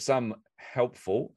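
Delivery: slow, drawn-out sarcastic "helpful". Real, not acted. Mocking the worker who threw their bags into a puddle, slow and sarcastic. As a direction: lean on "helpful" like it's in air quotes. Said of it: "I say in inverted quotes".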